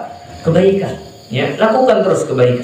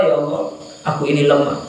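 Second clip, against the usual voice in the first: humble plea; 4 dB quieter than usual. Shown as a demonstration. Preacher shows a humble worshipper's soft plea. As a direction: say it softly, admitting weakness. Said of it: "Maka ketika aku berdoa".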